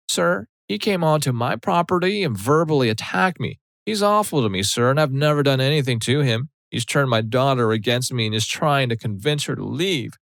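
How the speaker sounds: mother acting frail to win over a cop, high and whiny; fragile old lady act. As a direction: play the pitiful victim to the officer. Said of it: "puts on the fragile, brittle old lady act".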